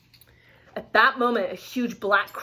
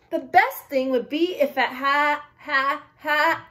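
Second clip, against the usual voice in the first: storybook frog breaking into "ha, ha"; giggly frog; 4 semitones higher, slower than usual. A narrator's reading. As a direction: voice a mock laugh on the last words. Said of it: "she couldn't stop laughing".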